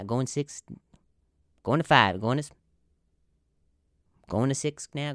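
lightly voiced auctioneer losing the thread; drugged auctioneer. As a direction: attempt an auction chant, stalling and fading. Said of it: "you don't give an auctioneer heroin".

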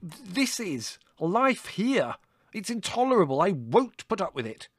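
spluttering, very high rant; splutter, then rage at a high pitch; outraged shouting. A narrator's reading. Son declaring life here unbearable to mother, outraged. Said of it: "shouted Larry".

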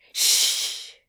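sharp unvoiced shush. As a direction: hush him urgently.

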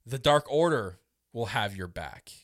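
"Dark Order" set apart by a pause before the rest; pointed pausing. Retold or imitated. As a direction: retell it deliberately, pausing after "Dark Order". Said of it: "the way he says it and his pausing".

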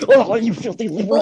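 high, loud sneering jeer; mock sneering critic. Mocking the people calling him a filthy liberal, in a loud sneer.

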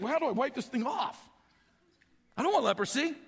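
mild mock panic; acted alarm at a diseased hand; freaking out. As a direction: fret comically, only slightly heightened. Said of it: "as he's freaking out".

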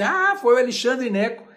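leve encenação de um espectador, mais agudo e forte; comentário encenado. Pretend. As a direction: abra num "Ah" animado, como quem comenta. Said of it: "fala assim". (recado de espectador levemente encenado)

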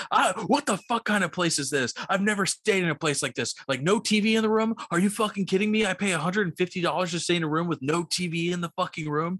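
hammed-up furious guest complaining; irate hotel guest chewing out the clerk, mock outrage; angry guest rant. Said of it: "he comes barging down".

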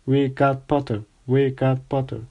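mild mock celebratory yell. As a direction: gloat happily across the hall. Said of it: "the Weasley twins yelled".

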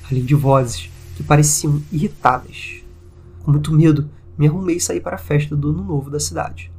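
measured reading, pauses between phrases; story narration. A narrator's reading. Podcast host reading a listener's haunted-house account, measured narration.

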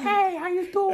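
put-on soft, high Mexican accent, sweet; mexican accent, really soft. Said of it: "I sound like a, uh, Mexican person".

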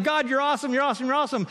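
hammed-up gloating praise; mock praise. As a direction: gush over God like a fan. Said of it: "you're just like".

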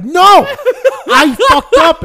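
high, loud exasperated cry; mock frustrated dad. Dad annoyed at losing pool, loud and high. Dad's frustrated retold outburst.

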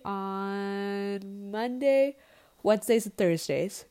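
words stretched through a yawn. Real, not acted. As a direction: talk through a big yawn. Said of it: "I'm yawning".

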